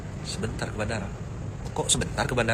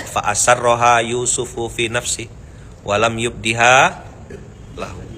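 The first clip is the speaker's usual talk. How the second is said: slow recitation; 4 semitones lower, slower than usual. Shown as a demonstration. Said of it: "Baca artinya".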